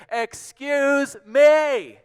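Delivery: polite request at full shout. A narrator's reading. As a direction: holler up to someone far above. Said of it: "he shouted up to those giant elephant ears".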